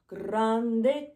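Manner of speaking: loud, stretched word; big voice. Shown as a demonstration. Teacher showing grande in a loud, big voice. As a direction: make grande sound huge. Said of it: "big and small".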